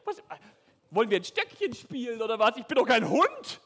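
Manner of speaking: viel höhere, lautere spöttische Stimme; verhöhne den kleinen Jungen von oben herab; höhnischer Riese. Acted. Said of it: "Der hat gelacht". (Goliath verspottet David mit hoher, lauter Spottstimme)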